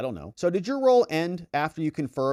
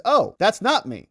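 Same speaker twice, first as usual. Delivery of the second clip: mock dismay, louder and higher; taken aback; 6 semitones higher, 6 dB louder than usual. Witness realizing the pictured man isn't him, taken aback. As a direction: back away from it, slow and high.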